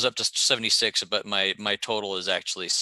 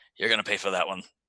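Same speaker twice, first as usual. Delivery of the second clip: muttering a curse under the breath. Voicing a character during a fight: cursing under his breath. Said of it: "curse under his breath".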